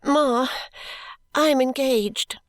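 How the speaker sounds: high, tearful plea; crying heartily. A narrator's reading. Daughter tearfully confessing to her mother, high and crying. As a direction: blurt it out through tears. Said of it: "and crying heartily".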